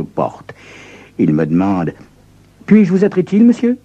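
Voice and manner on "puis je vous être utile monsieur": put-on polite young clerk.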